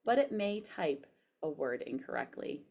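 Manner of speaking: careful dictation, spoken punctuation; dictating. Shown as a demonstration. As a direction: read it clearly to voice typing. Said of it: "So I'm pushing the microphone".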